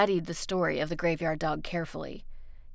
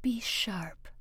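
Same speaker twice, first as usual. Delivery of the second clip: slow, hushed urging; half-whispered warning from a cat; urgent whisper; 2 semitones higher, slower than usual. A narrator's reading. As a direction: urge in a low, whispery tone. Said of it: "in a tone low as a whisper".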